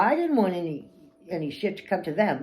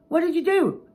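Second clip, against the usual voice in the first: much higher, loud mocking echo; snapped; 12 semitones higher, 6 dB louder than usual. Speaker snapping back at the boss, loud mocking echo. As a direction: throw his words back in a snap. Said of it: "And I snapped".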